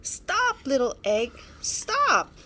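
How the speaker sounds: high, loud desperate calls; yelling. Acted. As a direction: shout after the rolling egg.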